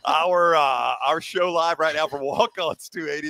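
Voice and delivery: on-air promo read, measured at first; steady radio live read; live sponsor read. Real, not acted. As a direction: read the venue plug like a radio host.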